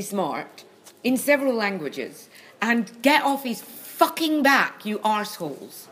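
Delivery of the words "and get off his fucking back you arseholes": angry outburst. Real, not acted. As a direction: snap at the critics with force. Angry outburst defending a friend.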